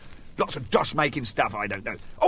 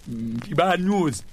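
patient voice; slower than usual. Acted. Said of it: "He said".

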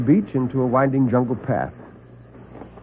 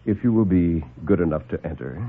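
polite doctor; 6 semitones lower, 3 dB quieter than usual. Acted. Grove politely orders them in.

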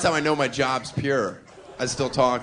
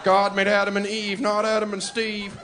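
protester slogan; 6 semitones higher than usual. Pretend.

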